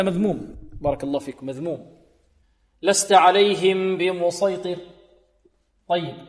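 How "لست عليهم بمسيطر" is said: slow loud لست عليهم بمسيطر, heavy ص and ط; loud slow recitation. Shown as a demonstration. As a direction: project it slowly for the class. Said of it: "عندنا بمسيطر هنا صاد". (تلاوة جهرية بطيئة)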